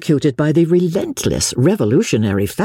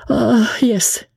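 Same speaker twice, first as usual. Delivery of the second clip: put-on higher, French-accented countess, hopeful; clinging to her only hope, French lilt; 11 semitones higher than usual. A narrator's reading. Countess voiced in reading.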